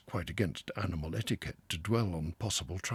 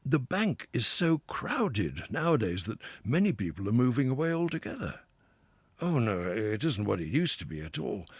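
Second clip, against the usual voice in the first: lightly voiced, hearty Water Rat; a river-lover boasting fondly of home; a hint of a cheery, expansive Rat; proud Rat; 5 semitones higher, 6 dB louder than usual. A narrator's reading. Rat, forbearing then grumbling.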